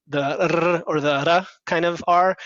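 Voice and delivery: "R" said slowly in a few different ways, ending on a hard R; demonstrating R sounds. Shown as a demonstration. Coach modelling "R" variants for an Indian American speaker, slow and deliberate. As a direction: sound out each "R" slowly, changing the R each time. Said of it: "the R sound".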